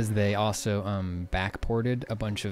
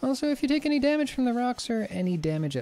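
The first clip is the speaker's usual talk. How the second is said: shipwright voice; 3 semitones higher than usual. Acted. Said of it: "She looks up at you".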